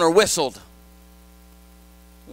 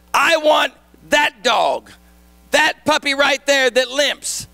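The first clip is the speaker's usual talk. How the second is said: slow, firm indignant demand; a boy stands up to the shop owner, indignant; 3 semitones higher, slower than usual. Acted. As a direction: plant your feet and insist, slowly. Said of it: "the boy got very indignant".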